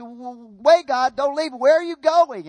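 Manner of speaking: acted anxious cry for them to stay; alarmed pleading. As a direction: call after someone leaving, mock-alarmed. Acted Moses pleading as God leaves.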